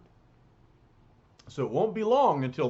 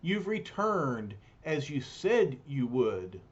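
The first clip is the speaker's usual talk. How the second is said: put-on gentle young woman voice. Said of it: "She says".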